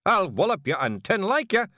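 loud, high, angry yell; yelled threat. Acted. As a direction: bellow it in his face. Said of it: "yelled Rob Anybody".

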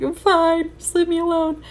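brushing off a friend. Retold or imitated. Upset student snapping at a worried friend, high and sharp. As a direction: push them away with a sharp, high plea.

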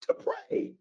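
whisper. Real, not acted. Preacher echoing his answer to the congregation in a whisper. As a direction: whisper "To pray." right after calling it out.

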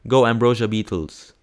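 loud, mock sports-fan cheer; root for them loudly. Cheering on the beetles.

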